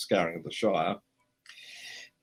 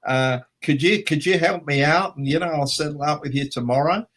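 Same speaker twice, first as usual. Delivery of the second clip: higher, louder pleading put-on voice; Richard Taylor; 6 semitones higher, 4 dB louder than usual. Mate asking to borrow euros, high coaxing voice. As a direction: innocent mate asking a favour, pitched up. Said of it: "so he said".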